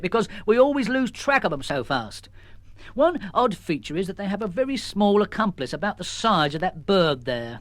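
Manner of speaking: lightly voiced sergeant; police sergeant. Sergeant delivering a message, lightly voiced. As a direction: official and plain.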